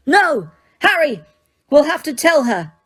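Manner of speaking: high, loud frantic plea; desperate girl. Acted. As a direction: plead in panic. Hermione desperate.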